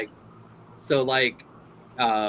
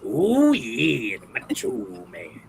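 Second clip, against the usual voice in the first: drawn-out wrestler catchphrase; Macho Man Randy Savage; slower than usual. Acted. Showing a favourite impression, drawn-out wrestler voice. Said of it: "it's Arnold and Macho Man Randy Savage".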